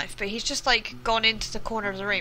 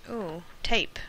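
whispering; 3 semitones lower, 6 dB quieter than usual. Real, not acted. Excited find while looting.

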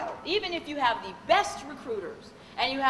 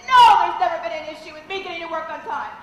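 upset client; 3 semitones higher, 6 dB louder, faster than usual. Retold or imitated. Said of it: "she started crying".

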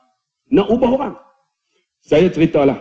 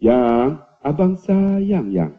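slow, drawn-out endearment, pitched low; tender sweet talk; 4 semitones lower, much slower than usual. Acted. Husband soothing wife over forgotten birthday, tender.

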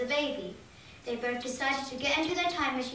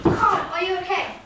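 worried; 5 semitones higher, 7 dB louder than usual. Acted. Friend dying, calling out.

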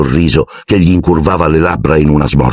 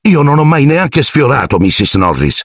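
very loud; 10 semitones higher than usual. Acted. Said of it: "disse Harry a voce molto alta".

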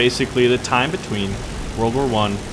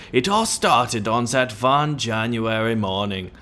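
slow mock German accent; terrible German accent; 4 dB quieter, slower than usual. Beginning the story for son, slow hammy German accent. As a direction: draw it out in a bad German accent. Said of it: "terrible German accent".

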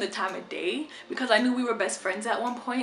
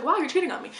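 accusing wow; 6 semitones higher, faster than usual. Retold or imitated. Girlfriend confronting cheater, shocked. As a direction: hit the wow in disbelief. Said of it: "And I was like".

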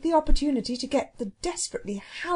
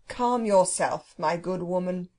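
slightly lowered, measured soothing; lofty phoenix, calming; 3 semitones lower than usual. Acted. Phoenix addressing the angry cook, calming.

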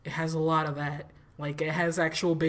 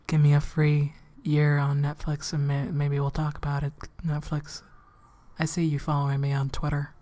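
cocky demand; 3 semitones lower, 5 dB louder than usual. Retold or imitated. Demanding deal from Netflix.

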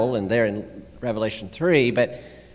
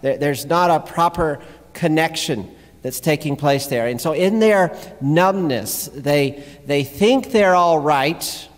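preaching; 4 semitones higher, 3 dB louder than usual. Real, not acted. Preaches on the passage just read.

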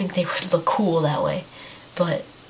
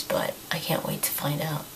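losing voice; 8 dB quieter than usual. Real, not acted. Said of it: "I'm pretty much losing my voice".

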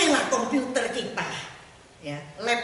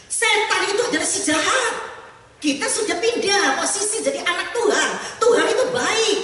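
preaching peak; 10 semitones higher, 7 dB louder than usual. Real, not acted.

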